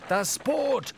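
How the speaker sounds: very high cry of alarm; screamed warning. A narrator's reading. Starbuck alerting Ahab to the boat, alarmed scream. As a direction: yell out the sudden danger. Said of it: "schrie Starbuck".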